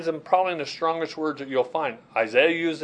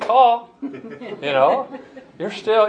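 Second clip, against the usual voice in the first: laughing through the words, pitched up; chuckling; 9 semitones higher, 4 dB louder, much slower than usual. Real, not acted. Preacher to his congregation, laughing at the nine-foot giant. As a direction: chuckle at a giant who doesn't matter.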